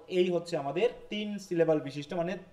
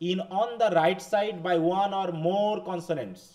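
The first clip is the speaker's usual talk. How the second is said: slow, carefully spaced English read for notes; slow dictation; much slower than usual. Shown as a demonstration. Teacher reading the rule aloud to the class, slow dictation. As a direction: spell out the rule slowly so students can write.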